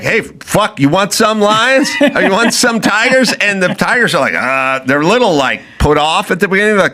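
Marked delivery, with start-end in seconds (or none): 0.0-3.3 high, cocky bird voice; crane voice. Retold or imitated. Crane taunting the tigers, high and cocky. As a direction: play the smug crane offering tigers. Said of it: "the crane's like".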